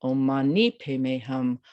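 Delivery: "Mani" stretched and stressed, whole line unhurried; slowly, leaning on "Mani". Shown as a demonstration. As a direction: linger on "Mani". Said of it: "You can switch".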